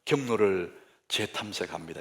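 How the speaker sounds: low, soft GPS announcement; understated machine guidance voice; navigation announcement. Acted. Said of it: "내비게이션 뭐라고 하면은".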